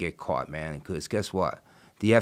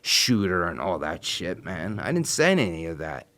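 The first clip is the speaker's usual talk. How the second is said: angry outburst. Retold or imitated. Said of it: "I start freaking out".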